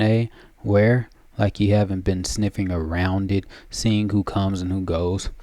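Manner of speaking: a lightly voiced crone taunting; mocking old hag. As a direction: jab at the liar with sly glee.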